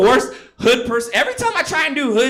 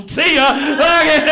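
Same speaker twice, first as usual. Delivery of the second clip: mock dismissive shout; 5 semitones higher, 6 dB louder, slower than usual. Acting out dismissal.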